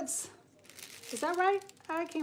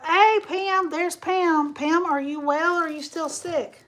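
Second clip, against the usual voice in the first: excited greeting; 5 semitones higher, 7 dB louder, slower than usual. Real, not acted. Spots friend Pam in chat.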